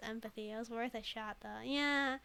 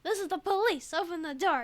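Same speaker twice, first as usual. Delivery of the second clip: louder commanding cop voice; loud police command; 6 semitones higher, 7 dB louder than usual. Acted. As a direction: bang on the door and order it open. Cop demanding entry.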